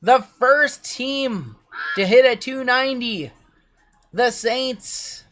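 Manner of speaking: slow, high, loud race finish call; drawing out the winner, loud and high; excited race call. Real, not acted. Calling the duck race finish.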